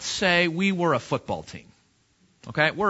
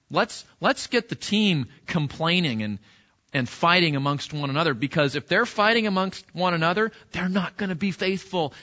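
scheming Satan. Retold or imitated. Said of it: "one of his favorite strategies".

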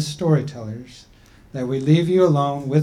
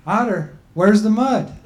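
a higher, slightly raised voice for the people; people's voice; 6 semitones higher, 5 dB louder than usual. Acted. The people telling Grandma Turtle she's too old, in a raised voice.

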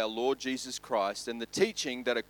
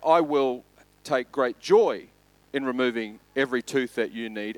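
frustrated dentist. Acted. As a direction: let the annoyance build into gleeful menace on great joy. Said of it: "the dentist starts to get a little bit frustrated".

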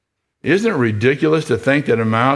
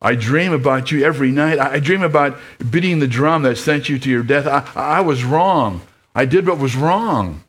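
higher, pleading, a touch of trembling; remorseful old mouse; 5 semitones higher than usual. Acted. Lester confessing his guilt to Desborough, pleading. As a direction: confess it to the son you wronged. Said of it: "his whiskers trembling".

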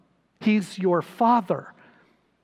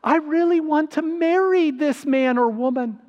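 mock pleading prayer; 4 semitones higher than usual. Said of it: "We're saying".

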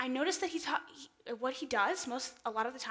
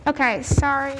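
talking through a face mask; muffled behind a mask; 4 semitones higher, 16 dB louder than usual. Real, not acted. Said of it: "there we go, mask off now".

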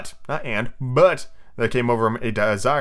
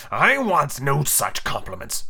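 slow, petulant captain; sulky pirate chief; slower than usual. Acted. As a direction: refuse petulantly, dragging the words. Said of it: "Hook barked petulantly".

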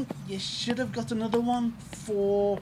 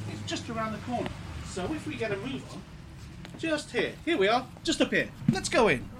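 fading in and out; 4 dB quieter than usual. Acted. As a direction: voice fading away then returning. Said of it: "your voice fading in and out like that".

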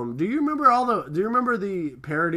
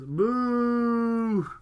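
mock boo; 8 semitones higher than usual. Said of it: "everybody boos him".

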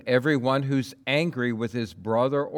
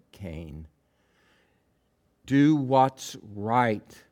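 pleading; slower than usual. Acted. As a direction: plead gravely with someone about to do wrong. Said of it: "comes to Cain and pleads with".

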